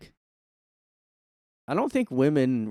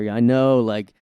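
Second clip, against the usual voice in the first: loud mock teen slang; 5 dB louder than usual. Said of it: "you go up there".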